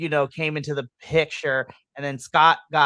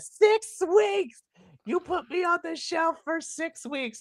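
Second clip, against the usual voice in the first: put-on, worked-up, emotional yell, very high; 13 semitones higher, 6 dB quieter than usual. Retelling Macklin yelling at Santana: imitating Macklin yelling. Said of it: "he's yelling at Santana".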